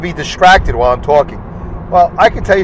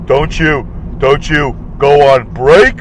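mocking the idiot coworker; slower than usual. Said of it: "so he said".

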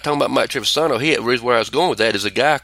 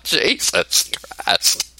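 exasperated; 2 semitones higher, much slower than usual. Retold or imitated. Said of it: "I'm like".

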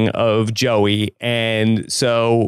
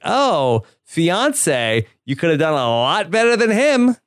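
higher-pitched mock retort; acted put-down; 5 semitones higher, slower than usual. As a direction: pitch it up, acting out a ready jab. Acting out David's ready put-down.

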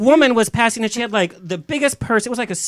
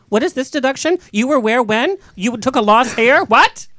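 mock tax interrogation; 3 semitones higher than usual. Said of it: "she'll say".

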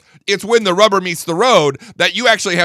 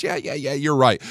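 mock meek Republican; 3 semitones lower, 5 dB quieter than usual. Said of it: "slinks away and says".

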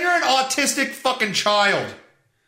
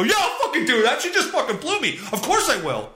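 excited, laughing, higher-pitched agreement; mock eager husband; 4 semitones higher, faster than usual. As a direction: agree giddily like a delighted husband.

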